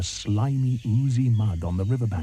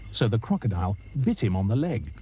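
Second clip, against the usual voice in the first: ordinary delivery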